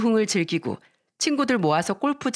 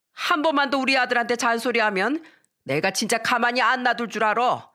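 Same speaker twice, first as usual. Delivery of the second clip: a hint of a furious mother-in-law; mother-in-law yelling; 3 semitones higher than usual. Mother-in-law defending her son to his wife, mild mock yell. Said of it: "화를 내며 소리쳤습니다".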